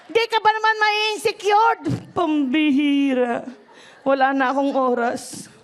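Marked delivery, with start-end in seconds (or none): 0.1-3.5 exasperated outcry. Real, not acted. Exasperated outburst about poor wedding.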